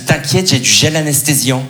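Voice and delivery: slow, unbothered reassurance; calm him down slowly; slow, unbothered calm from the date; astonishingly calm. Retold or imitated. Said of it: "dans un calme sidérant".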